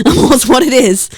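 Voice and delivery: laughing repeat of a shrug line. Real, not acted.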